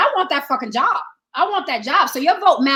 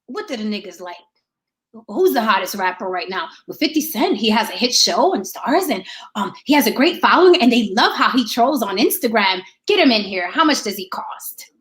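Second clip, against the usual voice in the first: lower, scheming mock aside among staffers; mock politicians' aides; 6 semitones lower than usual. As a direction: play the campaign staff plotting, voice dropped low. Politicians' team picking a rapper.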